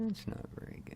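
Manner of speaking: whispered worry to himself. Real, not acted. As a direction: say it under your breath, unvoiced.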